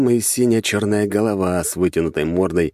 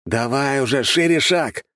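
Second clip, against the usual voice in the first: raised-pitch hurrying order; urgent command; 8 semitones higher than usual. A narrator's reading. Hero hurrying Vasilisa out of the collapsing hall, urgent command. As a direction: urge a companion to move right now. Hero hurries girl from falling rocks.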